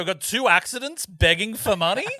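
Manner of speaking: high, hammed-up exasperation through laughter; exasperated dad rant. Inventor dad complaining about his kids, mock exasperated high voice. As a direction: rant as a mock put-upon father. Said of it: "He's like".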